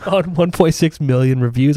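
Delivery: groggy, a little hungover; tired hungover voice. Real, not acted. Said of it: "I'm a little hungover".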